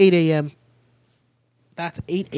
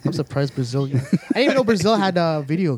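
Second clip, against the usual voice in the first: laughing while joking. Real, not acted. Joking about Brazil, laughing.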